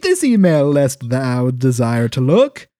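loud, grand Shakespearean delivery; hammy stage actor. Acted. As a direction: declaim it like an old actor. Archaic email read theatrically.

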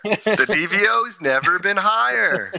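high, loud goofy nerd voice; squeaky nerd shout. Retold or imitated. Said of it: "the whole nerd voice".

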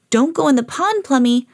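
storybook owner's warning; warning the dog. Acted. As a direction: call out a caution to your pet. Owner warns her dog.

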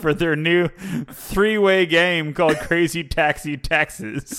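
slow, drawn-out trailer announcer. Pretend. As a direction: sell the game title like an ad. Jokey game title pitch.

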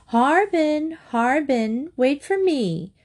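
mother calls out down the street, high; calling out. A narrator's reading. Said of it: "she called out".

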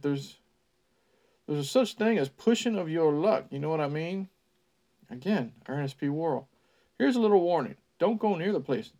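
put-on folksy old local spinning a tale; old country man. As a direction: spin it like a creepy small-town storyteller. Ned's line in character.

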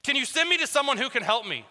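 exasperated plea. Retold or imitated. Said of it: "where you're just like".

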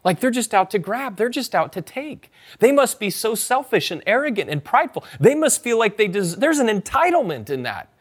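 mock disdain for someone who never says thanks; judgmental inner voice. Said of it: "You're like".

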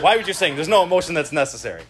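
lightly playing the unemotional logician; mock-puzzled at anyone feeling anything; logical Spock-like. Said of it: "is the Spock of this church".

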